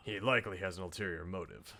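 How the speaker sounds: put-on low, measured older mentor figure; confiding quietly in a young helper; pensive politician. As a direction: think it through in a low, restrained voice. Voices a game politician confiding.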